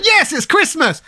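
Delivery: high-pitched joyful exclamation, acted; jolly waking cry. Retelling Scrooge waking after the ghosts, acted jolly delight. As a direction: celebrate like Scrooge on Christmas morning. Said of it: "he wakes up all jolly the next day going".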